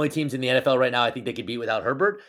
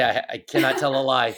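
laughing through the words; laughing confession. Real, not acted. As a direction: giggle while confessing.

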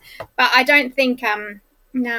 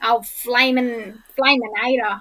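Alf impression; slower than usual. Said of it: "something that Alf would say".

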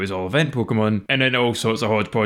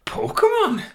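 falsetto question. Pretend. Prompting the right name.

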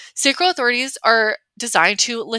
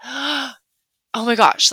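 gasping oh my gosh; 2 semitones higher, much slower than usual. Shown as a demonstration. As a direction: gasp like you just heard great news. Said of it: "use noises to be like".

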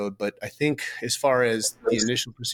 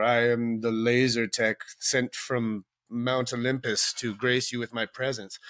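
slow, grandiose diva voice, lightly done; hammed-up but understated haughty diva; mock diva; slower than usual. Mocking diva coworkers.

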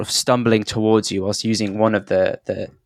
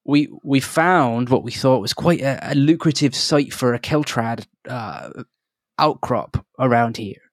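a lightly voiced nervous halfling, higher; flustered halfling; 4 semitones higher than usual. Halfling prospector apologising to the travellers, lightly voiced and flustered. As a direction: babble apologies in a fretful little voice.

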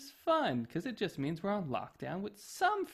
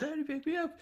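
put-on high whiny child's plea, much higher; toddler screaming; 12 semitones higher, faster than usual. Son begging dad to pick him up, high whiny child voice. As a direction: whine like a small boy wanting up. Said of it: "he was just screaming at me".

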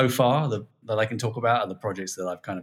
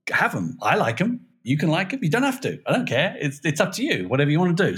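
upbeat pitch to fans; 3 semitones higher than usual. Retold or imitated. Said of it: "All I'm saying is, like".

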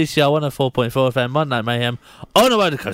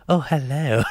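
sexy telephone voice. Shown as a demonstration. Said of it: "Come on, for Mary listening".

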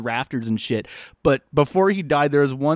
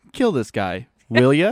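mock command; 5 semitones lower than usual. Brain-dead zombie repeating the command, lower voice. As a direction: lower flat zombie order. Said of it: "Roger repeats the fucking, command".

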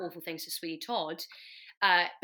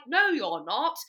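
raised, louder mock indignation; indignant refusal; 5 semitones higher, 6 dB louder, slower than usual. Judge refusing the sailor before storming off, mock indignant. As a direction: play an outraged judge, high and loud.

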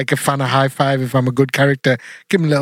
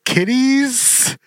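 wrestling villain promo; 5 semitones lower, much slower than usual. Pretend. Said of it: "let me start again".

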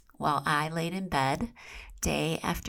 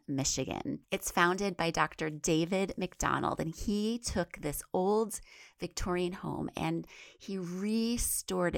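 a touch softer sponsor read; 3 dB quieter than usual. Acted. Pitching the chapter house to listeners, ad-read voice. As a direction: recommend the place like a friend.

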